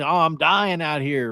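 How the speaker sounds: West Virginia "dyin'", g dropped; lightly demonstrated West Virginia accent. Shown as a demonstration. Host showing how folks back home say it, West Virginia accent. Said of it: "We say".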